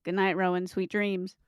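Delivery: hushed nature documentary read. Acted. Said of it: "I'll do the documentary voice".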